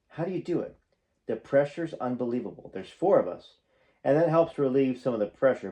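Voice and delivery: reading a memoir aloud, projected and animated; memoir narration. A narrator's reading. Fan reading stories about a singer to viewers, animated narration. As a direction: read it out like an audiobook storyteller.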